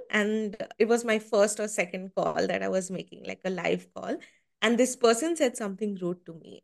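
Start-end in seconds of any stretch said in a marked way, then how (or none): none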